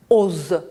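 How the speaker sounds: "Oz" ending on a voiced z. Shown as a demonstration. Teacher gives the sound between O and E, "Oz" with voiced z. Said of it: "le son Z".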